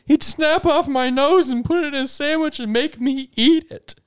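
high, jittery waiter voice; nervous waiter. Acted. Waiter answering the party's call, high and jumpy. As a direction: squeak it out like a nervous little waiter.

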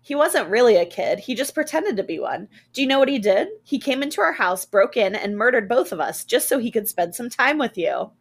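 a hint of an unnatural, gloating mother; the possessed mom telling the boy, eerie and loud. Possessed mom reveals the murder.

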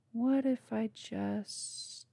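slow, breathless menacing whisper. Acted. Bo teasing the campers before the fire leaps, slow whisper. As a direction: whisper it like a threat.

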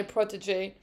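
French word said with an American accent; fake American accent. Real, not acted. Fan calling the driver her protege, fake American accent. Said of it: "fake American accent to say a French word".

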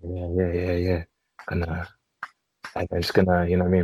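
deep, soft bedroom murmur; low and soft, like late-night phone talk; low seductive voice. Retold or imitated. Retelling low phone-sex talk.

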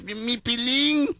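put-on high, slow shaky old voice; old man voice. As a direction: call out like a little old man. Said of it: "al fondo un viejito. Y dice".

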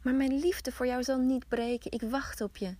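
high, breaking whisper turning tender; dying farewell. Acted. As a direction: let her fade as the tree falls. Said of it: "riep ze".

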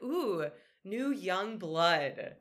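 slow, drawn-out mock creepy neighbor; creepy welcome. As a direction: stretch it out like a lightly hammed-up creepy neighbor. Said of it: "And I'm like".

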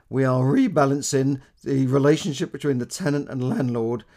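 a hint of imitated political speech accent; Theresa May accent. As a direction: mimic a politician's speech accent with some force. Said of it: "I had to do that little accent".

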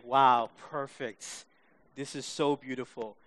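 hushed admiration, letting it sink in; retold awe. Viewer marvelling at the finished painting, retold awe. Retelling awed relief at painting.

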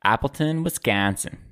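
lightly put-on Wisconsin accent; a hint of Wisconsin accent. Shown as a demonstration. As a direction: say it like a Wisconsin local. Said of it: "That's my Wisconsin accent".

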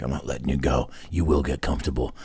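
low, soft soothing murmur; lightly acted comforting of a shaking puppy; gentle reassurance.

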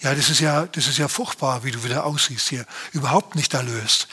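lightly voiced mock scolding of his own soul; tut-tut at yourself, a touch of mock dismay; David teasing his own nervous soul, a mild scold. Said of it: "David steht neben sich und sagt".

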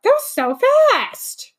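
gasp, then blurt it out stunned; shocked gasp. Real, not acted. Episode ended unexpectedly.

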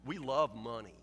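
low, soft honest admission; quietly admitting he loves money; quiet confession. Real, not acted. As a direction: confess it softly to the congregation. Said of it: "let's just say it".

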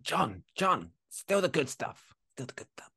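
mock impression of a musician. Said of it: "she'll be right behind him".

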